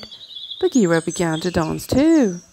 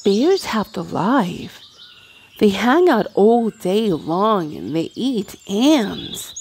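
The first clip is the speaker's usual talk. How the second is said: mild exclamation. Acted. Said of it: "Mowgli exclaimed".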